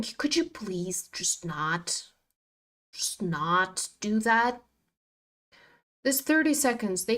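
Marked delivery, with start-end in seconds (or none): 0.0-4.6 slow pleading whisper; whispered plea. Real, not acted. Trader begging the chart under her breath.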